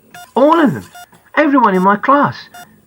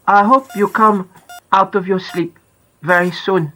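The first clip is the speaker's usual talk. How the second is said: a hint of Dutch in a shy schoolgirl praying for a friend; gentle Dutch-tinged voice; slight Dutch accent. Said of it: "She speaks with a bit of an accent".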